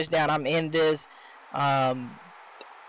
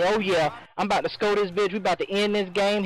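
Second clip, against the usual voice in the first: excited; 4 semitones higher than usual. Retold or imitated. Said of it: "So I'm thinking".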